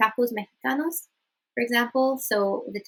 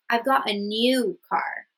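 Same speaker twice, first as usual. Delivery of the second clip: "new" drawn out slowly; stress on new; slower than usual. Shown as a demonstration. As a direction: lean on "new" as the point. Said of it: "it's used to highlight and emphasize one of its qualities".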